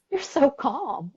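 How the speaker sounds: high, drawn-out marvelling; imitated hairdresser's amazement. Hairdresser notices client's new calm, imitated amazement. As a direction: stretch it slowly in imitated wonder. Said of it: "And she's like".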